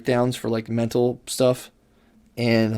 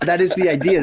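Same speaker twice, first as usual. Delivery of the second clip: said through a real laugh, higher; 7 semitones higher, 4 dB louder than usual. Real, not acted. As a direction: still laughing as you agree. Laughing after friend's summary.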